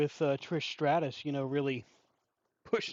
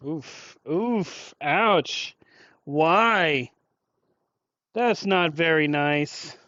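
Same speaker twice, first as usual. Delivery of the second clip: mock hurt; 5 dB louder, much slower than usual. Chat insults him, mock hurt.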